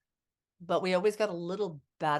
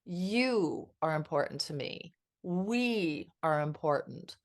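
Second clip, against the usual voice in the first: sincere slow; 2 semitones lower, slower than usual. Retold or imitated. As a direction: say it to your partner gently. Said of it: "connection says".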